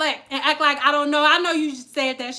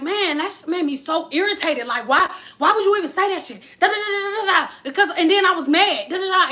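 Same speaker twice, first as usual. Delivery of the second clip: irritated rant; 4 semitones higher than usual. Acted. Acting out a Scorpio's irritated rant.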